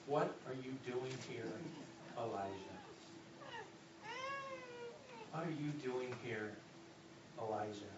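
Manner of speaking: low, soft, questioning voice of God; soft solemn divine question; hushed voice of God. Acted. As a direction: ask it gently and low, as God. God's voice questioning Elijah.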